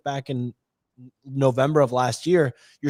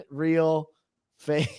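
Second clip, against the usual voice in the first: laughing. Real, not acted. Reads votes while laughing.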